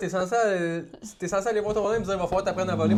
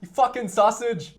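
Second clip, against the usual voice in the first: Paddy impression; 4 semitones higher, 7 dB louder, slower than usual.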